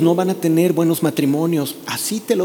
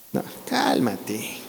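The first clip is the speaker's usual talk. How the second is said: hushed, slow calming; 7 semitones lower, 12 dB quieter, much slower than usual. Pretend. Preacher soothes a grudging listener.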